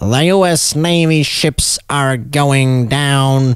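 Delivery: put-on vintage newsreel announcer style, old-time movie narration. Showing how to do a vintage voice, give an example line in a vintage voice. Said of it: "you need to do a vintage voice".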